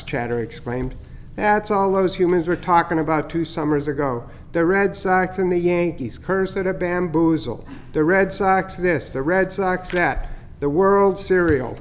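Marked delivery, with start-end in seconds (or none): 1.3-11.8 teasing starling. Acted. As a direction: gloat a little over the fake heron scare. Chatter recalls Red Sox talk.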